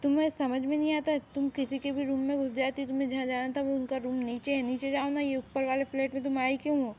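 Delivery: loud, annoyed telling-off; scolding shout. Acted. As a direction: raise your voice at an intruder. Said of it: "उसे चिल्ला के".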